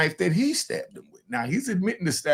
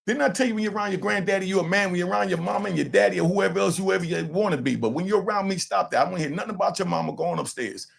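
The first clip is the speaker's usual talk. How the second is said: raised, fast grandfather scolding; stern lecture; 6 semitones higher, faster than usual. Real, not acted.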